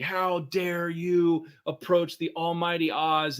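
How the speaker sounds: mock the almighty wizard's booming challenge. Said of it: "this loud booming voice".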